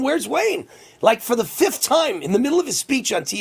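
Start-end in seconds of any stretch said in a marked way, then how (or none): 0.0-0.7 high, retold searching call; imitating Trump calling out. Host retells the president still looking for him, mock calling out. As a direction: lightly mimic an insistent call. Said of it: "He kept saying".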